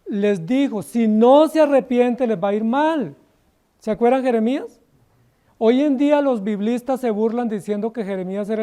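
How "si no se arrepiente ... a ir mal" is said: vehement warning. Retold or imitated. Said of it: "que con vehemencia, con lágrimas".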